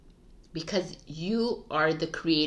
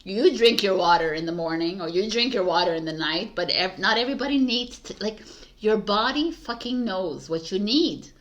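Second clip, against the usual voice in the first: exasperated rant; 2 semitones higher, 4 dB louder than usual. Retold or imitated. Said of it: "I'm like".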